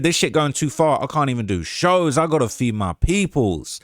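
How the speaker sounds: lightly imitated Savannah drawl; a rapper. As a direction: read it as a loose impression, stretching the ending. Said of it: "if I can do the Quando voice".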